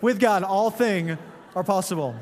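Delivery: "With God, all thing are possible" read through a laugh; laughing at the typo. Shown as a demonstration. Pastor laughs reading the Pinterest typo, chuckling. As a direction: chuckle while quoting the misspelled sign. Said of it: "It's just terrible".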